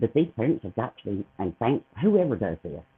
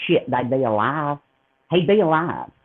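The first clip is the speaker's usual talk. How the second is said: angry outburst; 3 semitones higher, 5 dB louder than usual. Real, not acted. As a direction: spit it out in fury.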